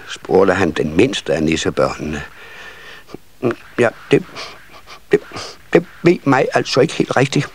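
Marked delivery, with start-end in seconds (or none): 3.8-7.5 high, halting little voice; shy little child. A narrator's reading. Smallest nisse asked for his wish, shy and halting. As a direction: falter between words, bashful and small. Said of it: "Den lille nisse var så genert".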